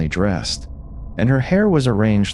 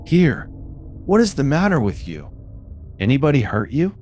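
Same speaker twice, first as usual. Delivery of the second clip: rough peddler; 5 semitones higher than usual. A narrator's reading. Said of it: "roughly exclaimed".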